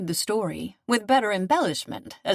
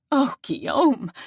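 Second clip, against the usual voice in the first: a tearful higher cry of his name; weeping; 6 semitones higher than usual. Acted. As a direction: call out his name through tears. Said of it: "she wept".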